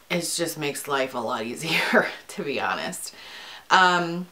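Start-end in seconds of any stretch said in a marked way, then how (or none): 2.3-3.1 breathy whisper, almost confiding; whispered aside. Real, not acted. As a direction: drop to a whisper for the admission. Quiet aside after a laugh.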